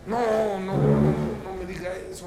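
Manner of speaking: acted tearful protest; mock-weeping refusal of bad news; imitated crying. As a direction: play a father breaking into tears. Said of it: "Empezó a llorar".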